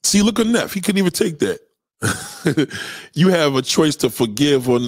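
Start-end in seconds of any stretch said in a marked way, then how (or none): 3.1-4.9 lightly mocked preachy quote; mocking disgruntled person. To the podcast crowd, mock quote of a disgruntled person. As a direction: mimic a disgruntled person's saying. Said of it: "Disgruntled people talk like this".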